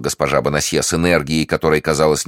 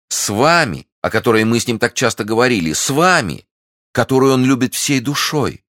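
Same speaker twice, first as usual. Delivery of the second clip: high, loud gushing; effusive outburst; 9 semitones higher, 4 dB louder than usual. A narrator's reading. Milady gushing at Constance, high excited rapture. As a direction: gush with mounting false rapture.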